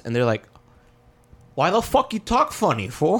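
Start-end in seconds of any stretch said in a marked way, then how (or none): 1.5-3.2 high, scornful coworker voice; mocking coworker. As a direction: sneer at the new guy.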